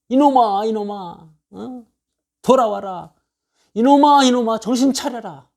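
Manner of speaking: pleading, choked-up rebuke that swells to a cry at the second call; a father begging his son to come back while punishing him; tearful scolding father. Retold or imitated. Father scolding his wayward son through tears, crying out. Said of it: "종아리를 때리고 눈물을 흘리는 아버지".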